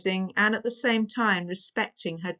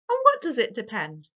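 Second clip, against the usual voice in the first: pompously; 4 semitones higher, 4 dB louder than usual. Acted. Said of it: "said her eldest brother pompously".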